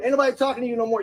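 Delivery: fast, loud angry retort; angry shout. Real, not acted. Father shouting at the man who insulted him. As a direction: fire it back hard.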